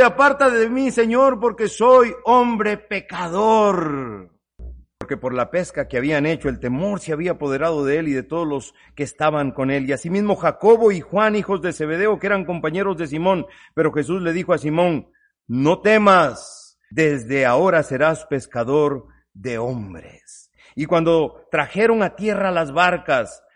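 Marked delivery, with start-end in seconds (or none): 0.0-4.3 slow, loud, heartfelt plea; humbled plea. Acted. Peter begging Jesus on his knees. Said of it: "diciéndole". 15.5-20.5 very slow, steady reassurance; calm him gently, slowly; reassuring. Acted. Jesus reassuring frightened Simon.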